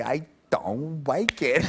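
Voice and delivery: "like" said as "wike", slowly; slow private catchphrase with W for L in "like"; muttered toddler catchphrase. Shown as a demonstration. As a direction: draw out "don't" and say "like" as "wike". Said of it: "under my breath, you just kinda say".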